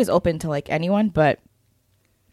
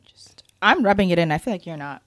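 whispering. Real, not acted. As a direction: breathe the words, no voice. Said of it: "A little A S M R".

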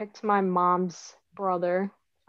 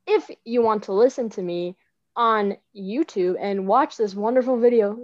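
louder podcast announcer outro; 3 dB louder than usual. Acted. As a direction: sign off like a radio host. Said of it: "my nice announcer voice ending".

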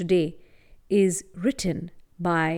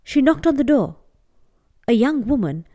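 gentle storytelling voice; story narration. A narrator's reading. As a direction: tell it like a bedtime tale. Storyteller narrating a folk tale.

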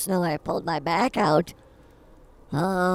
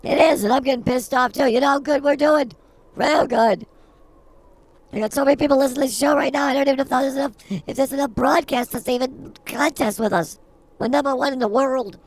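hammed-up bragging; 6 semitones higher, 5 dB louder than usual. Bragging about listener numbers.

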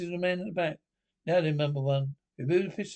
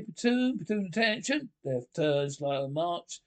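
drawn out parade commands; slower than usual. Acted. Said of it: "drawn out parade commands".

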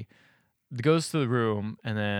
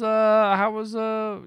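acted casual question; 11 semitones higher, 3 dB louder, much slower than usual. Voices husband's question at dinner.

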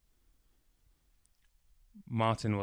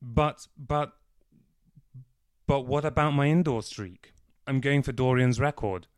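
higher, louder, petulant stammer; whiny protest; 4 semitones higher, 6 dB louder than usual. A narrator's reading. Martin protesting to Alfred, high and whiny. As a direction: plead for your silly streak.

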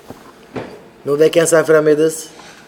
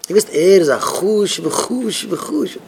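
mock marvelling; 4 semitones higher, slower than usual. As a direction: stretch each repeat in a high, teasing swoop. Mock-marvelling at someone's supposed good sense.

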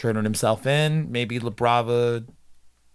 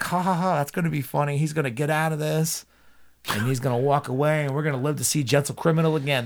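higher, hopeful fan chatter; mock gleeful reaction; 4 semitones higher, faster than usual. Fan sure he'll get out of this, mock gleeful. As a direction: play the relieved, delighted viewer.

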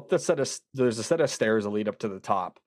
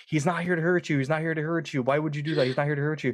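higher-pitched, insistent repeated plea; psychic pleading with spirit; 4 semitones higher, faster than usual. Retold or imitated. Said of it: "she was talking to the spirit".

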